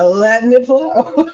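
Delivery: slow, laughing dreamy drift; mock hippie giggle. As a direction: float the words out with a laugh. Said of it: "In my hippie era".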